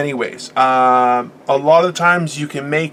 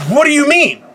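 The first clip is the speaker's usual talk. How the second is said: alarmed; 8 semitones higher than usual. Retold or imitated. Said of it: "And I'm like".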